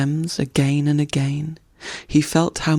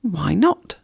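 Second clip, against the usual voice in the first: gleeful; 4 semitones higher than usual. Acted. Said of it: "in high glee".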